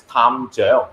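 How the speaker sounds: 탐정 said with Cantonese sounds; Cantonese pronunciation. Shown as a demonstration. Comparing the word in his native Cantonese, Cantonese sounds. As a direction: give 탐정 a Cantonese ring. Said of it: "it's pronounced as".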